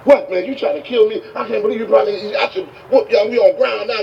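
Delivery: high-pitched angry rant; going off. Retold or imitated. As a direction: lash out at him, acted indignation. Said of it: "He's just going off on him".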